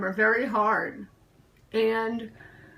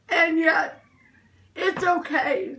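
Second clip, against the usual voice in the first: tearful; 3 semitones higher than usual. Real, not acted. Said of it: "sorry I'm so emotional".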